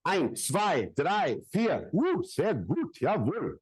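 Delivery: playful German count for the crowd. Shown as a demonstration. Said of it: "How about German?".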